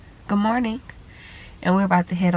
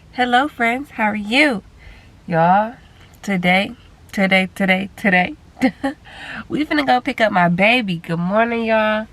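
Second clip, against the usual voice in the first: excited; 3 semitones higher, 4 dB louder than usual. Real, not acted. Happy news, baby coming home.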